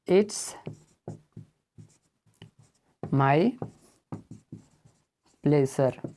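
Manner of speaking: "It's my pleasure" with each word set apart by long pauses. Shown as a demonstration. Teacher to students, slowly word by word. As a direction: lay each word down separately for the class.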